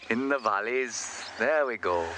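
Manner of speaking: drawn-out, clumsy Welsh lilt; badly faked slow Welsh; bad Welsh accent. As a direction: stretch it out in a poor attempt at Welsh. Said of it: "can't do a Welsh accent".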